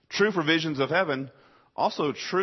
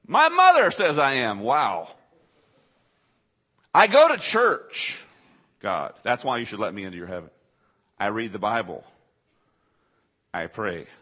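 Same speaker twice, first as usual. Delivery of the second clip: smug pleading; 5 dB louder than usual. Retold or imitated. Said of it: "your plan is to say".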